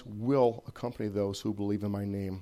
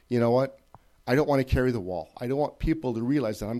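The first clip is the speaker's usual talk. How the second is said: exasperated; 5 dB louder than usual. Retold or imitated.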